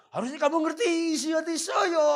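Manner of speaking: high, loud mock wail; inner scream. A wife's unspoken cry to her husband, shouted high. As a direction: let the wife's hidden scream burst out. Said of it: "dalam hati berteriak".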